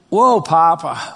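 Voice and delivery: slow, reverent "Whoa, Papa" to God. Real, not acted. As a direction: let the wonder stretch out, slowly. Pastor addresses God in awe.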